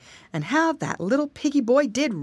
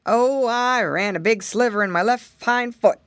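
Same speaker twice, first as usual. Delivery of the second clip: lightly voiced elephant in trouble; a touch of woe, slightly raised; complaining elephant; 4 dB louder than usual. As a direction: complain mildly as the big creature. Elephant complains about sore foot.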